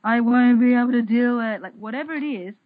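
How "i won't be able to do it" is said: worried inner voice. Retold or imitated. Inner critic voice quoted.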